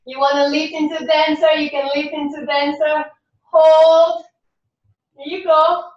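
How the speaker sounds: lilting, rhythmic counting-in voice for a dance class; sing-song class cueing. Acted. Instructor cueing students through a tango warm-up in a lilting voice. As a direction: coax the class through each stretch in time with the music.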